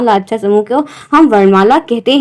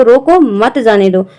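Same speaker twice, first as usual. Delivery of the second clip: रोको set apart from मत जाने दो; pause after रोको; slower than usual. Shown as a demonstration. Someone telling others to stop a man leaving, pause after रोको. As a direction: order रोको, brief break, then मत जाने दो. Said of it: "कोई बोल रहा है कि उसको".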